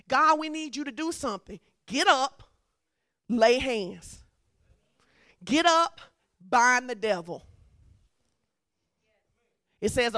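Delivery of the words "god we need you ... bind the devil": loud commands in short bursts; loud rallying cry with pauses between commands; urgent preacher's call. Acted. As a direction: call the church to action. Preacher calling out commands to act.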